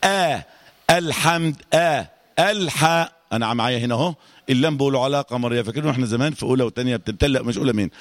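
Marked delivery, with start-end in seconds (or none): 0.0-3.1 slow, careful "آه" and "الحا" with light vowels; thin "ae" opening on "الحا"; light hamza demo. Shown as a demonstration. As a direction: start "الحمد" on a thin, fronted hamza. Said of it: "في تصحيح الهمزة".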